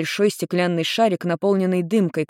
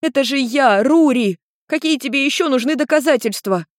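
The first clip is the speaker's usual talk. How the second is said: put-on higher indignant girl's insistence; girl insisting; 8 semitones higher, 3 dB louder than usual. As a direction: press him to recognise her.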